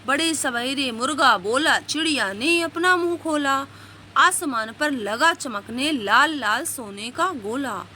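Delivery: put-on slow, sing-song reading of a children's poem; poem recitation. Teacher reciting a morning poem slowly to young pupils. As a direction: recite it slowly for the class to follow.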